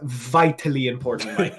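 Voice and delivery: put-on slow Caribbean-accented "Vitally important"; lightly imitating a Caribbean coworker. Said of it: "the most, like, Caribbean accent".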